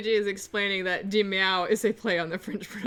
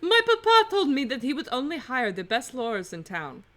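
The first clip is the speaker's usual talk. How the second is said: wobbly mock-French, almost Russian accent; bad French accent sliding toward Russian; French accent turning Russian; 3 semitones higher, 6 dB louder than usual. Prisoner telling lawyers about papa, French-Russian accent. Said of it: "It's getting a little Russian".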